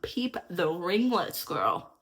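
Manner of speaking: slow, proud show-off; drawn-out bragging. Real, not acted. Showing off her curls.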